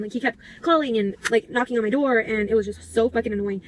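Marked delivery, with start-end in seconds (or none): 2.2-3.6 talking through a burp; words with a burp in them. Real, not acted. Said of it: "Sorry, I had to burp".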